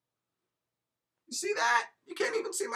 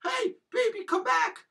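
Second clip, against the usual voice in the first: bar sleaze; 3 semitones higher, 4 dB louder, slower than usual. Acted. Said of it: "one heck of a bar sleaze".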